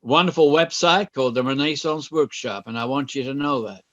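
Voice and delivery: light educated American accent, promo read; American voiceover. Shown as a demonstration. The speaker plugging John's website to the class, lightly voiced American promo. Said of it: "pretty educated American voice".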